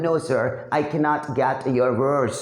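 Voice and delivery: slow, drawn-out English line; slow and deliberate. Retold or imitated. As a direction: stretch out every word. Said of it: "यहाँ पे बोला है". (धीमे-धीमे खींचकर बोलना)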